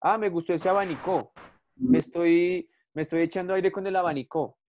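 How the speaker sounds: playful «abanicó» with the final syllable stressed; mock wrong stress. Shown as a demonstration. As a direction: act out a silly sentence, hitting «abanicó» on the end. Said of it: "Yo no digo abanicó". (ejemplo en broma, diciendo «abanicó» con acento al final)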